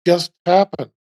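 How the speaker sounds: slow, spaced-out bafflement; acted stunned disbelief. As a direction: say it dazed, one word at a time. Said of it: "just going like".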